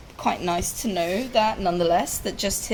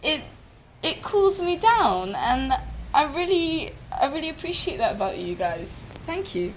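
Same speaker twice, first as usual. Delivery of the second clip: shouting thanks; 5 semitones higher than usual. Acted. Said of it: "And he shouts".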